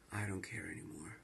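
a fast, breathless real whisper; despairing whisper. Real, not acted. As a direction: let it slip out in a whisper, beaten. Despairing end of video.

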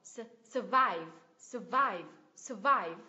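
"survive" with weak suh, weighty VIVE; schwa in first syllable. Shown as a demonstration. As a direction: reduce "Su-" and stress the end. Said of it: "Âm thứ nhất là xoa sao".

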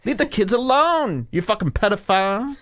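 attack like a furious debater; mock angry rant.

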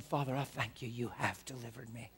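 soft, intimate prayer to God; hushed thankful prayer; quiet prayer. Shown as a demonstration. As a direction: pray alone, tender and sure. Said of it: "getting alone and saying".

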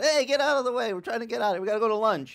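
high, loud impatient shout at other drivers; parking lot yelling. Retold or imitated. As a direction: yell them out of the way, hungry and cross. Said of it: "They start yelling".

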